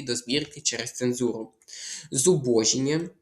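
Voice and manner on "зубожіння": «Зубожіння» stressed on BO; stress on second syllable. Shown as a demonstration. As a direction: lean on «бо» in «Зубожіння». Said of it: "наголос на другий склад". («Зубожіння» з наголосом на «бо»)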